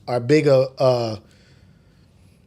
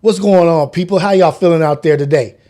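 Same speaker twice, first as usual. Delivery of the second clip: upbeat DJ greeting to listeners; radio host greeting; 4 dB louder than usual. Shown as a demonstration. Streamer greeting his audience as a radio DJ. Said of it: "my radio reality voice".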